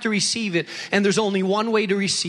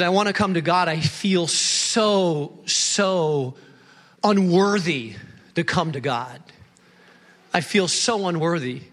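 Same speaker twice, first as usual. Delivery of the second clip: tearful confession; 5 semitones lower than usual. Retold or imitated. Young man tells pastor he's unworthy, mildly tearful. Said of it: "with tears in his eyes".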